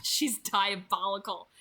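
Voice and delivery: lightly chuckled line; chuckling. A narrator's reading. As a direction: let a laugh sit under it as you admire her. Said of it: "Emmett chuckled".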